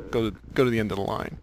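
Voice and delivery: fast, bored "Go to, go to the end of the line"; quick, weary dismissal; eye-rolling. Retold or imitated. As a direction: brush him off with a roll of the eyes. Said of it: "roll my eyes".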